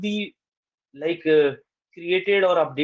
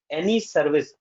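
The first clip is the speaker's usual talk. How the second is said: a little weight on "service", set off after a pause; mildly emphasize the word "service"; stress on service. Real, not acted. Instructor stating a design rule, mild stress on "service". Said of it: "I'm emphasizing on the word service".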